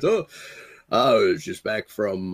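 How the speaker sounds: low, clumsy, terrible newscaster voice. Recounting how he suddenly walked into the room, give his reply in a terrible Tom Brokaw impression. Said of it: "I do a terrible Brokaw".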